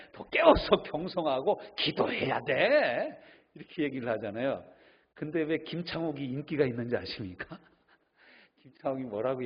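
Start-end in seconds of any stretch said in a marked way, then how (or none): 0.1-3.2 slow preachy rebuke. Retold or imitated. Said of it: "그럼 우리는 대부분 뭐라고 합니까".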